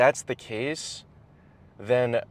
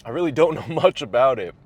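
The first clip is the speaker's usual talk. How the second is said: laughing; 3 semitones higher, 6 dB louder, faster than usual. Real, not acted. Laughs at himself.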